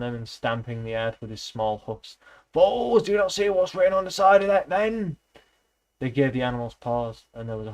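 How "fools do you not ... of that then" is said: high, loud exasperated shout; angry rebuke. A narrator's reading. Benjamin demanding the animals read the van, angry shout. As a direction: rage at their blindness.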